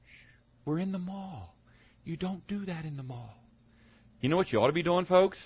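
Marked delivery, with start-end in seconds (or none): 0.1-3.3 very soft, embarrassed parent's shush; urgent lowered voice, mock reprimand; hushed scolding. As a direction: hush a child in public. Parent shushing singing child in mall.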